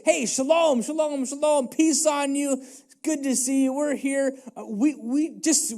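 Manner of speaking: butter him up before asking; friendly servants angling for a tip; eager, friendly messengers. Acted. Messengers' eager speech to Nabal.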